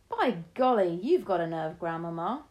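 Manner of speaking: put-on loud, delighted boy's by golly; a boy impressed by his grandma's nerve; amazed exclamation.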